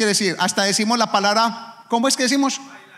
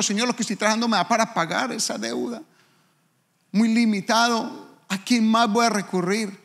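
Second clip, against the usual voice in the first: tearful prayer; 5 semitones higher than usual. Retold or imitated. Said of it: "empecé a llorar".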